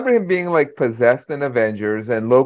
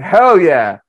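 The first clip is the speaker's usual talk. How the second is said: mock cheer; 5 semitones higher, 7 dB louder than usual. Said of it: "stood up in the audience and went".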